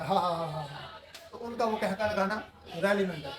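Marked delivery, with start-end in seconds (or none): 0.0-0.9 mock laugh, spoken ha-ha-ha; imitated guffaw. Teacher imitating onlookers laughing at a caricature, mock guffaw. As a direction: act out bystanders' guffaw, half-hearted.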